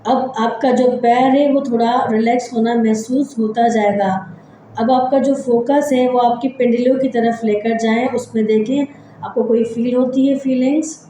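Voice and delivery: measured relaxation-exercise voice with long pauses; guided meditation. Acted. Leads breathing body-scan relaxation.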